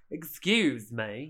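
slow, overdone fake British accent; egregious British accent. Pool boy challenging her in an egregious British accent. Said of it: "the most egregious British accent".

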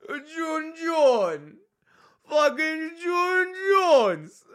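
high, drawn-out announcer call; high stretched hype call; hyped name call. Real, not acted. Hyping a patron's name.

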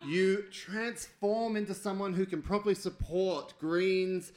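lightly dramatic storytelling with slowed key words; game master narration. Pretend. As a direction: narrate the mishap, stretching the blow.

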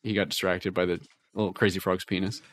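ordinary delivery

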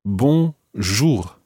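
bonjour, nasal bon, guttural R; French bonjour. Shown as a demonstration. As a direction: model bonjour for repeating. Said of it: "you repeat after me".

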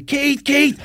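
high-pitched mock yell of a name; imitating someone hollering across traffic; imitated roar. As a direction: call out as if roaring from a car window. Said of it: "he's roaring at me".

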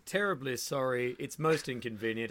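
put-on low, plummy old gentleman, slowing at the end; aged British gent apologising over frostbite; old posh Englishman. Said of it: "the most British thing".

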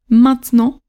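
"maintenant" said as two syllables, main-tnant; everyday spoken "maintenant" with a silent middle e; two oral syllables. Shown as a demonstration. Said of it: "syllabe orale".

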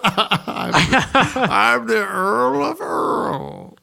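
high, very slow, hammed-up British earl; mock British accent. Cohost answers in a mock British earl voice. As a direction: stretch it out as a pompous British earl. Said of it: "cohost mimics the British bit".

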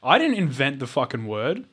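exasperated rant; mock angry. Real, not acted. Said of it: "You're getting so angry".

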